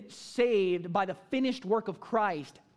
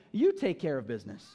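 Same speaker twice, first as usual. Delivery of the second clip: "you" hit harder than the words after it; emphatic command; 5 semitones lower than usual. Acted. Jesus telling the disciples not to send them away, emphatic "you". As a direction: put the weight on "you". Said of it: "it's emphatic".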